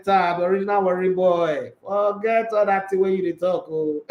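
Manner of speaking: slipping into Nigerian Pidgin; easy Pidgin banter, playful; Pidgin English. Real, not acted. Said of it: "Pidgin English go enter".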